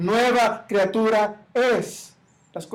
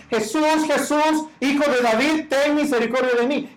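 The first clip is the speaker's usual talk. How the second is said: raised pleading call, higher; blind men crying out; 5 semitones higher than usual. Retold or imitated. Blind men call to Jesus, raised pleading cry. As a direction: cry out for mercy from the crowd. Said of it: "que gritaban".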